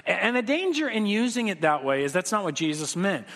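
ordinary delivery

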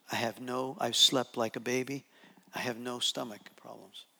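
low, soft retold speech; quiet peace. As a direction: voice her calm, hushed and low. Voicing the woman, now at peace.

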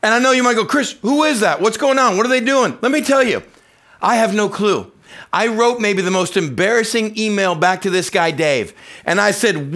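high, loud, excited preaching; preaching at full force. Real, not acted.

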